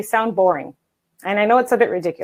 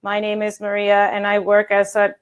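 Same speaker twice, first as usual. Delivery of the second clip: stiff, monotone recital; reading off paper; 2 semitones lower than usual. Shown as a demonstration. Coach showing a badly rehearsed job interview pitch, monotone recital. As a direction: recite it mechanically, with no rise or fall. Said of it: "sound like this".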